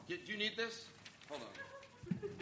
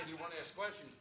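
mock sweet question; 4 semitones lower, 14 dB quieter, faster than usual. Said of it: "here's the audience when I say".

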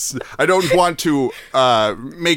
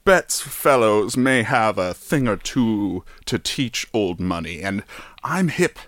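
rich person voice; 2 semitones lower than usual. Pretend. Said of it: "back to my poor person voice".

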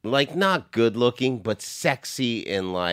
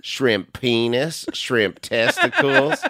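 put-on Cajun accent; 3 semitones higher, slower than usual. Mock Cajun voice.

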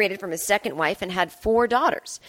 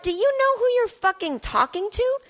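put-on British accent; 12 semitones higher than usual. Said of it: "I thought".

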